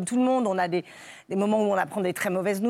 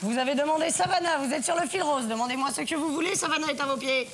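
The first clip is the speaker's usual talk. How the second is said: sultry hotline voice; 6 semitones higher than usual. Acted. Does a hotline seductress voice.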